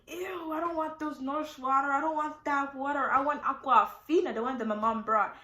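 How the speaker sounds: acted-out fussy refusal; disgusted whine. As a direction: protest like a picky patient. Acts out refusing the nurses' water.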